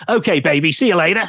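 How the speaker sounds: Johnny's smooth sign-off, lightly voiced; a hint of a smarmy DJ saying goodbye; imitating Johnny. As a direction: purr it like a cheesy radio veteran. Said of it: "finished the call by going".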